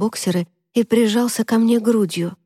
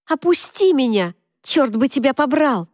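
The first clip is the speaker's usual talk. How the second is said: higher, pushing protest; loud protest; 5 semitones higher than usual. A narrator's reading. Girl protests while carried outside, louder. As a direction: fight him off with your voice. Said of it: "стала протестовать ещё громче".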